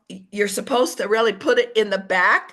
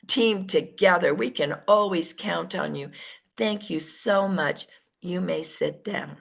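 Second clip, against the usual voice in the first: calm praise; 2 semitones lower than usual. Shown as a demonstration. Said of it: "I say".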